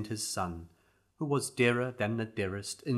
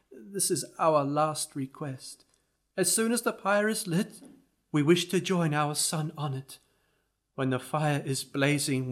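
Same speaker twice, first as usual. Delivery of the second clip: put-on grieving old parents; 5 semitones higher than usual. Narrator voices grieving parents.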